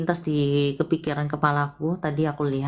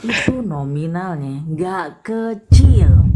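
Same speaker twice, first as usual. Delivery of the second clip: emphatic loud; 9 dB louder, slower than usual. Real, not acted. Menekankan jumlah uang.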